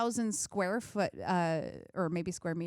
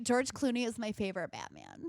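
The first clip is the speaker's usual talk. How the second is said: put-on Valley girl voice; 2 semitones higher than usual. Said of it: "when I say it like a Valley girl".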